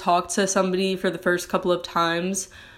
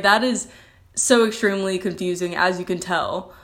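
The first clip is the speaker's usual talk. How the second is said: sarcastic. Real, not acted. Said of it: "I'm being sarcastic if you can't tell".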